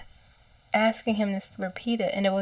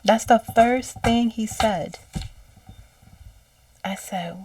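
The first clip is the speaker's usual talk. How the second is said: ordinary delivery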